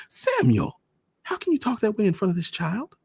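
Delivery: high, loud outraged reproach; shocked scolding. A narrator's reading. Mother scolding father in front of the child, high and loud. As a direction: scold him sharply.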